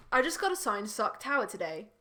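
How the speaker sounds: attempted British accent. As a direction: read Holly's reply in a put-on British accent. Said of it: "in my British accent".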